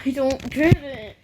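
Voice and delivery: real laugh breaking into the words; baffled laughing. Real, not acted. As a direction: say it through a helpless laugh. Laughing in bafflement at friend's behaviour.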